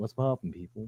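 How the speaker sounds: very quiet, low, half-hearted delivery. Mocking a guy's greeting to the group, imitating a half-hearted greeting. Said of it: "That was some half-ass what's popping people".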